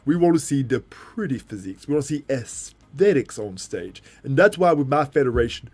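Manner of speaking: American veteran champion, stretched key words; animated, emphatic mock-champion speech; bodybuilder impression. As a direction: preach training wisdom in a mimicked accent. Acted bodybuilder impression, in character.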